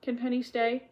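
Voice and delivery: high, pleading little questions; imploring young girl; begging. A narrator's reading. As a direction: plead hopefully with your father. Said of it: "begged Felicity".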